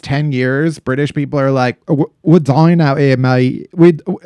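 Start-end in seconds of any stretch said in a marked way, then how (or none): 1.9-3.7 a bad British accent, mock complaining; hammy British moaning about heat. Podcaster mocking Brits in a bad British accent. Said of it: "tried and failed at a British accent". 3.7-4.2 bad British accent, mock despair; a fake Brit giving up in the heat. Podcaster still doing his bad British accent. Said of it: "tried and failed at a British accent".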